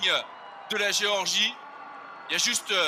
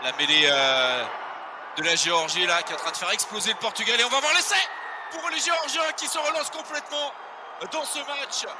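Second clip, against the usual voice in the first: excited shout. Real, not acted. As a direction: roar out the scrum try. Scrum push and try called live. (cri de commentateur en direct)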